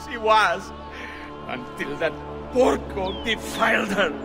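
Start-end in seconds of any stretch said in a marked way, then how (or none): 1.5-4.1 grieving, bitter outburst; bitter grief. Acted. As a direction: spit out the grief over a defiled daughter. Father grieving his hanged daughter.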